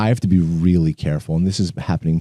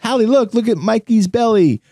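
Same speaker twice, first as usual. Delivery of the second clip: put-on talking to a toddler. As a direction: coax a three-year-old. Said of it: "I said".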